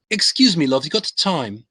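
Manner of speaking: cheeky British pick-up line, lifted at the start; British-accented approach to a stranger; British accent chat-up. Retold or imitated. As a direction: play a fake Brit chatting someone up. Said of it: "And I'd say".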